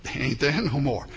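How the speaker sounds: lightly imitated Cajun accent; a touch of Cajun, played for laughs. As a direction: do a fishing buddy's Cajun punchline. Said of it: "He says in his best Cajun accent".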